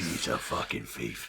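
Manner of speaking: London gangster imitation, unhurried; Lock, Stock London accent. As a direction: imitate a Cockney line, drawn out. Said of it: "Lock, Stock where they're talking and he's like".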